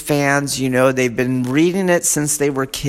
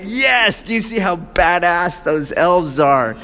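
happy fan; 5 semitones higher than usual. Retold or imitated. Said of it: "you're like so happy".

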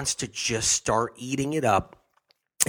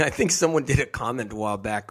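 ordinary talk

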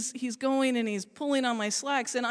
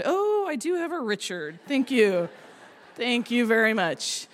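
relieved thanks. Retold or imitated.

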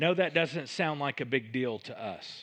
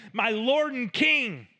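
mild calling out; 7 semitones higher, 4 dB louder than usual. Acted. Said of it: "he hollers".

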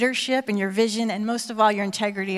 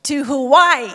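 booming prize announcer; 2 semitones higher, 7 dB louder, slower than usual. Acted.

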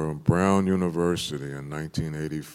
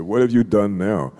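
louder, alarmed fatherly question, raised; the father presses harder, voice up; father's louder question; 6 semitones higher, 8 dB louder than usual. Retold or imitated. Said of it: "He said".

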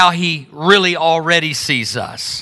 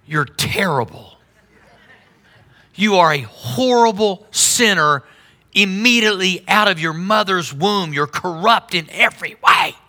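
mock hellfire preacher.

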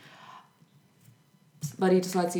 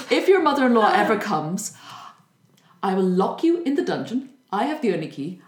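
a lightly voiced confident king, louder; voicing the king; 3 semitones higher, 6 dB louder than usual. King reassuring his frightened wife, lightly voiced and louder. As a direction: play the king laying out his clever plan.

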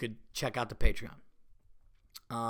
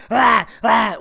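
mock laughing fit; 7 semitones higher, 12 dB louder than usual. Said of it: "it's not helping me going".

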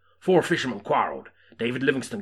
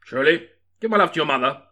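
put-on cowboy accent; 7 semitones higher, 11 dB louder than usual. Teasing with cowboy voice again.

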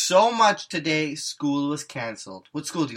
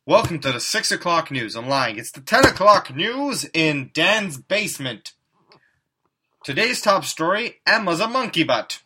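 news anchor; 6 dB louder than usual. Pretend. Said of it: "we're gonna pretend to be doing the news".

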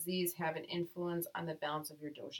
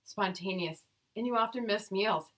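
sassy; 4 semitones higher, 7 dB louder than usual. Pretend. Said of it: "No, keep going".

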